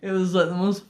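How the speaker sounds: high, loud sigh easing down; recovering from laughter. Real, not acted. Teller amused by own crash story, laughed-out voice. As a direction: catch your breath after cracking up. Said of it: "it's so funny though".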